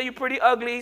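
mock backhanded compliment; wrong version. Shown as a demonstration. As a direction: tack on ugly as a teasing jab. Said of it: "Don't say".

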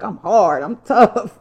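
a touch of Jersey swagger, laughing at herself; tough Jersey girl. Retold or imitated. Bragging to viewers about being a tough Jersey girl. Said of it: "I'm a Jersey girl".

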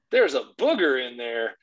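put-on slow, emphatic little-boy announcement; proudly imitated child, hitting BOOGER; emphatic kid enthusiasm. Son points to his butt, emphatic enthusiastic imitation. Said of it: "with the same emphasis and enthusiasm".

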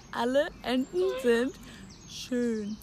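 slow, over-shaped words with a pause before schön; slow mouthing. Shown as a demonstration. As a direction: stretch out Alle Enten sind schön for lip reading. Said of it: "mouthing for lip-reading game".

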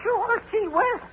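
put-on boy shivering with cold; teeth-chattering agreement. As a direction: talk through the shivers. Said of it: "what are you shaking for".

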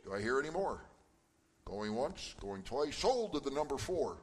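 playful auctioneer call. Pretend. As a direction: run it like a quick auction. Quiz answers sold like an auction.

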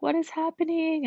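high-pitched retold disbelief; acted-out confusion, pitched well up; bewildered. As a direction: ask it high, as if baffled by yourself. Baffled by her own sudden crying.

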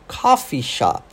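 "coffee shop" as KAH-fee SHAHP; American "coffee shop", open ah vowels. Shown as a demonstration. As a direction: model "coffee shop" with ah in both stressed vowels. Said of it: "tem um outro som".

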